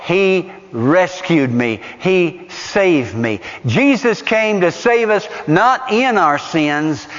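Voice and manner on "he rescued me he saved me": grateful wonder. Retold or imitated. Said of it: "you would say".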